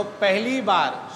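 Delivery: "पहली बार" drawn out slowly; emphatic stretch. Real, not acted. Preacher telling listeners the key condition, slow stress on "पहली बार".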